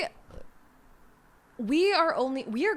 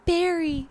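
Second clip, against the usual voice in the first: higher moaned name; mock moan; 6 semitones higher, 3 dB louder than usual. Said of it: "moaning his name".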